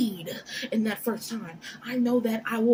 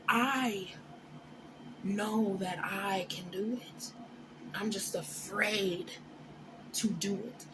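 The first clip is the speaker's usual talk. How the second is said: tearful; 2 semitones lower, 7 dB quieter, slower than usual. Real, not acted. Confessing fear of failing.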